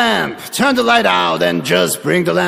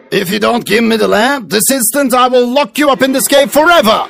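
threatening villain. Acted. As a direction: warn him coldly, villain style. Magician threatens Aladdin.

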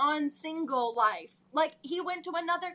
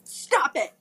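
firm stop; 3 semitones lower, 6 dB louder than usual. Acted. Acted quarrel, Ed pleading.

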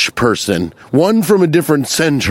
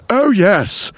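mock lecherous narrator; 4 semitones higher than usual. Pervy mock narrator bit.

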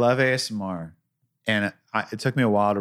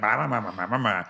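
mocking blah blah. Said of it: "rolled her eyes and was like".

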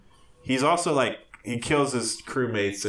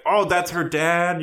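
louder, higher, drawn-out surprise; mock realization; 6 semitones higher, 5 dB louder, slower than usual. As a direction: play up the big reveal slowly. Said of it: "when they're like".

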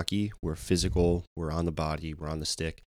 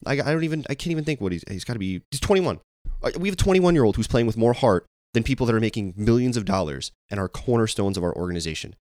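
frustrated outburst; 5 semitones higher than usual. Real, not acted. Fan venting to her co-host, high exasperated disbelief. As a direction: vent your disbelief, pitch climbing. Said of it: "you can hear it in my voice".

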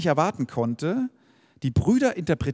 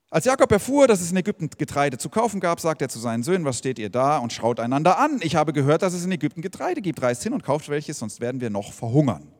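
scripture reading. Acted. Reads Bible story aloud.

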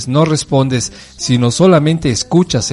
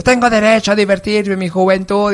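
mock teen protest; 6 semitones higher than usual.

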